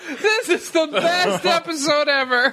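beaming with joy. Real, not acted. Host delighted by guests' disgust.

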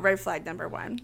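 hushed whisper; whispered aside. Real, not acted. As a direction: whisper it as a knowing warning.

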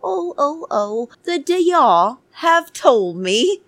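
high, wailing fake sob voice; mock crying Nicole. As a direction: mimic her nasal crying whine. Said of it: "She is crying and crying".

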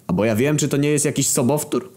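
lightly playful doubt; philosophical musing. A narrator's reading. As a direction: wonder aloud with feigned innocence. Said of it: "zapytałem filozoficznie".

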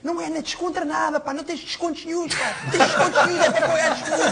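mock furious, squeaky rant; nervous angry coach. Player mimicking the flustered coach rebuking Ronaldo, high mock anger. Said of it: "E o outro nervoso".

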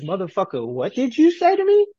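imitating an enraged mother; mock furious mom. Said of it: "All I hear is".

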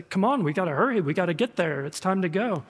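mildly agitated, hurrying urging; worked up. Acted. Worked-up disciples urging Jesus to go, impatient. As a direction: push them to get moving. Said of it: "His disciples are worked up about this".

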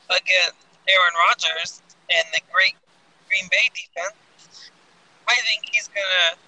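glitchy, choppy voice like a bad connection; breaking up like a robot on a bad line. Real, not acted. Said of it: "you sound like a robot right now".

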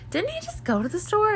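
high, puzzled mom voice; confused mom. Retold or imitated. Mom puzzling over a second store trip, high and baffled. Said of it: "she was really confused".

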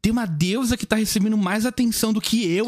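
high, indignant mock diva; offended goddess. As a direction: act out a jealous goddess who can't believe it. Voicing jealous, offended goddess Amaterasu.

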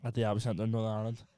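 measured, deadpan announcement with pauses; halting formal declaration; mock official statement. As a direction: read it out like a solemn legal statement.

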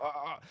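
half-hearted "aah" of pain; mock birth scream. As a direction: mimic a woman screaming in labour, held back. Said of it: "tiedätkö, ne huutaa".

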